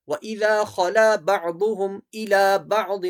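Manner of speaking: a heavy Arabic dad in بَعْضُهُمْ and بَعْضٍ; dad sound. Shown as a demonstration. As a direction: recite with ض in بَعْضٍ as a full dad. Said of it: "یہ ضاد پڑھیں گے". (بَعْضٍ میں ضاد واضح ادا کرنا)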